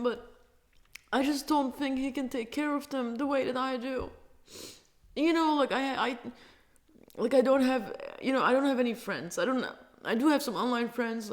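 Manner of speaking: talking through tears; crying while listing the few friends she has; tearful. Real, not acted. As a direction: keep the tears just under the words. Holds a tearful voice.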